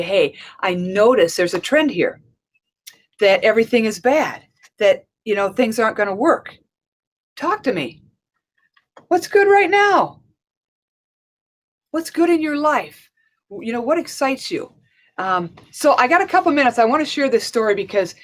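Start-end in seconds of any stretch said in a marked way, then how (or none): 0.0-8.0 coaching voice. Shown as a demonstration. 9.1-10.2 high, slow, eager question; bright coaching question. Shown as a demonstration. Coach asking a negative client what is good, rising and slow. 11.9-14.7 coaching voice. Shown as a demonstration.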